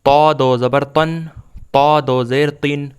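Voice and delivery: measured, evenly chanted spelling-out of syllables; teacher's steady recitation drill; Quran primer drill. Shown as a demonstration. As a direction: recite each letter and vowel name, then the syllable, pausing for learners.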